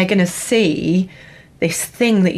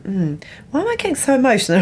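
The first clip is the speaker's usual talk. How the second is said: higher, fast self-questioning; mock puzzled self; 6 semitones higher, faster than usual. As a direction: imitate your own baffled inner voice. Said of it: "I was like".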